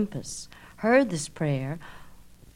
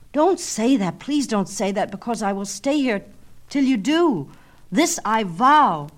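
high, loud, slowing to the vow; desperate vow; 4 semitones higher, 5 dB louder than usual. Acted. Narcissus vowing to stay, high and loud. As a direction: swear it with everything.

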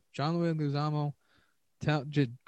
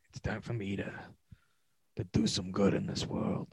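whisper; 4 semitones lower than usual. Pretend. Continuing the Eastwood old-man line.

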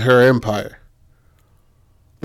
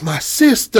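high, put-on gushing greeting; Rachel Dolezal type; 10 semitones higher than usual. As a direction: claim her as kin in an affected voice. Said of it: "like a Rachel Dolezal kind of character".

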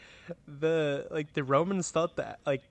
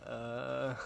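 slack-jawed uh; 5 dB quieter than usual. Retold or imitated. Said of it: "open and you're just like".

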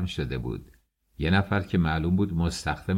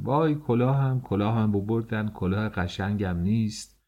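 mock wailing cry. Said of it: "شروع به داد و فریاد کردم".

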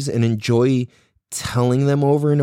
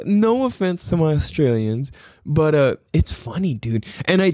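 usual speaking voice

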